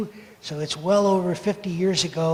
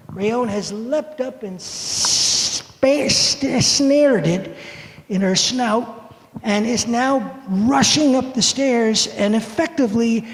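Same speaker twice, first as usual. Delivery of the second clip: excited retelling; 4 semitones higher than usual. Retold or imitated.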